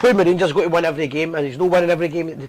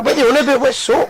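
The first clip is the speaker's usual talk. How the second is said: higher-pitched mock bewilderment; baffled Celtic fans; 6 semitones higher than usual. Host mimicking Celtic fans who've never heard of soap, baffled. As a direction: lightly impersonate clueless football fans. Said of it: "they're all going like that".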